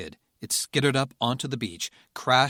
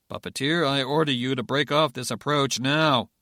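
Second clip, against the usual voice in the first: stern order; 3 semitones higher, 5 dB louder than usual. Acted. Officer orders on radio.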